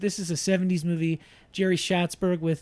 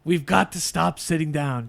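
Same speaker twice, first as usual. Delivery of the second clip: Al Pacino voice. Shown as a demonstration. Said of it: "read them out loud in the voice".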